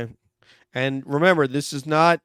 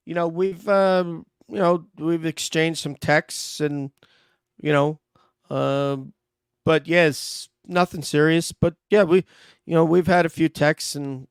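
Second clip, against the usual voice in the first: hesitant suspect, higher than his own voice; cagey suspect; 4 semitones higher than usual. Acted. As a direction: stall and hedge with every word. Plays suspect in mock interrogation.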